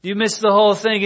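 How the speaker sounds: building from measured to high, loud disbelief; acted exasperation, climbing as it goes; incredulous anger. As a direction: berate them as if they've let you down. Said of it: "in them there is anger".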